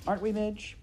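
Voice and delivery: high-pitched appeal; pleading princess. Acted. Princess appealing to Midge as a friend, high and pleading.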